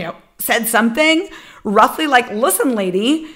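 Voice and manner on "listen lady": mock-stern scolding, pitched up; furious retort. Student scolding the laughing counselor, pitched-up anger. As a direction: put her in her place. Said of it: "I just got fierce and furious".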